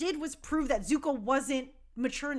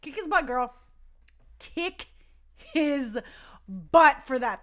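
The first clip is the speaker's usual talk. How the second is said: louder and louder cheering; 5 dB louder than usual. Retold or imitated. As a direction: egg her on. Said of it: "And I was like".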